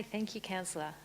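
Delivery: ordinary talk, nothing marked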